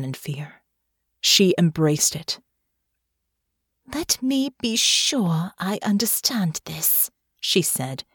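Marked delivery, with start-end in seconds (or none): 3.9-7.1 slow, held-back anger; measured words, anger kept on a tight rein; tightly controlled. Acted. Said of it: "in a low, tightly controlled voice".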